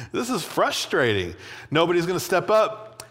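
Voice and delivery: mildly exasperated complaint; a touch of acted frustration; angry. David fed up that nobody steps up, mildly angry. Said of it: "He's, like, angry about it".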